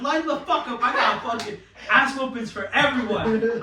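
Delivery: high, half-laughing challenge; laughing mock threat. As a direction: bravado through laughter. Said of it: "I said".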